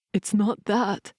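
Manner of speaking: slow, cracking voice. Acted. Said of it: "his voice cracking".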